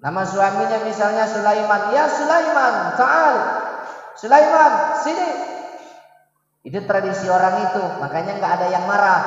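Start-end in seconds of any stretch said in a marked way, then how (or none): 2.0-5.3 drawn-out call a little higher; an Arab wife calling her husband by name. Retold or imitated. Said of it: "istri orang Arab kalau udah manggil suaminya".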